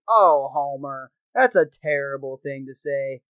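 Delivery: sad hound-dog cartoon voice; vintage cartoon voice. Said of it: "the old cartoon dog voice".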